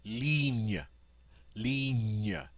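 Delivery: ligne as "leen-yuh". Shown as a demonstration. Teacher models the French word for line, ligne with ny sound. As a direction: say ligne with the ny of canyon. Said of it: "like the N Y in canyon".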